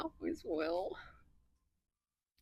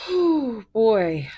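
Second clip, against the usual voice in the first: louder, rising gasp of delight; loud excited exclaim; 3 semitones higher, 11 dB louder than usual. Real, not acted. Tarot reader thrilled at a new card, loud oh boy. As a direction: cry out in delight.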